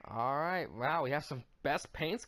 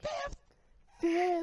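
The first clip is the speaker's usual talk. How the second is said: mock disbelief. Cohost echoes result in disbelief.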